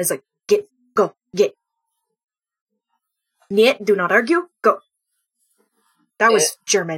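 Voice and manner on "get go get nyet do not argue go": sudden low, dropped voice. Voicing a husky whose head shoots up, with a dropped voice. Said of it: "like voice drops".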